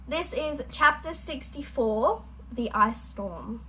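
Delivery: talking while chewing; reading with a mouthful of pretzels; mouth full. Real, not acted. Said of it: "Sorry for my chewing".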